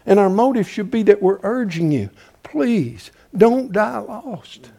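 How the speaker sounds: quiet, slowed plea; soft pleading. Acted. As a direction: beg them gently. Pleading for the lost.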